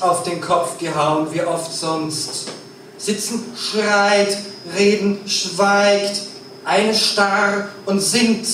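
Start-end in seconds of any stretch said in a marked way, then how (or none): 3.0-8.5 stage poet declaiming. Acted. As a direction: lay each phrase down slowly and firmly. Slow declaimed lines.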